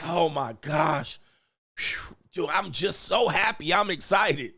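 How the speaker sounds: gushing, drawn-out mock delight; showy happiness. Man showing off happiness to his partner, gushing. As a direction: ham up how happy you are. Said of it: "You'll be like".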